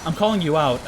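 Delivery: ordinary delivery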